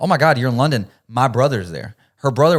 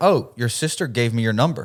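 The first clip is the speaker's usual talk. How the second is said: panicked voice. Retelling a sudden meeting in a shop: imitating own panicked words. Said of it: "I panic and I go".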